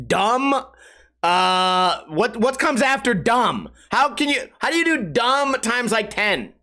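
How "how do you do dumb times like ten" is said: usual speaking voice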